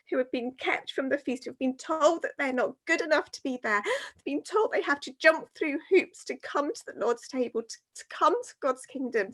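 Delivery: tearful. Real, not acted. Speaker moved by people kept from God's table, tearful. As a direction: speak through rising emotion, close to crying. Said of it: "And the tears have started rolling".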